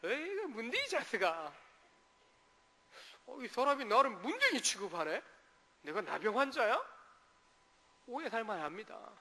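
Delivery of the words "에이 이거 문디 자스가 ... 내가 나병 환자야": a hint of Gyeongsang dialect, teasing and offended; lightly voiced Gyeongsang grumble; mock Gyeongsang banter, slightly higher. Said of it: "경상도, 전라도만 비교해 보더라도".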